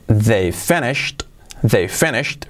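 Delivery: "finished" pronounced fenisht, final t audible; finished ending in t. Shown as a demonstration. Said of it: "Fijaos cómo digo finished".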